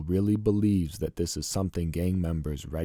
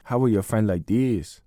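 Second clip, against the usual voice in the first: mock Mexican accent; 3 dB louder than usual. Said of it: "start speaking in an unrehearsed Mexican accent like".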